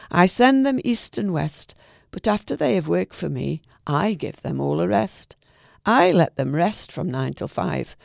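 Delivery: measured, lightly rhythmic poem reading; reading a short poem to sign off; poem recital. Acted. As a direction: recite it gently for listeners.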